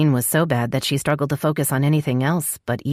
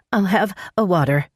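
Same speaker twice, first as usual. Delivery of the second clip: out of breath; 4 semitones higher than usual. Acted. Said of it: "she said between pants of breath".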